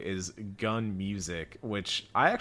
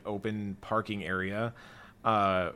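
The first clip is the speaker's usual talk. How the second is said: usual speaking voice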